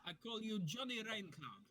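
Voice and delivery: hammed-up taunting call-out; calling out from afar. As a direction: pitch it up and call across the distance. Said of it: "and say".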